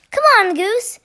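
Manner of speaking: a high, loud call up the hill; calling yell. A narrator's reading. Duck yelling back to Goose from far off. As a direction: yell it across the meadow. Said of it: "Duck yelled".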